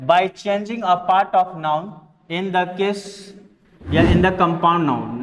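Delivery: reads the English rule out slowly, word by word; measured dictation pace; slow rule reading. Shown as a demonstration. (धीरे-धीरे नियम पढ़ना)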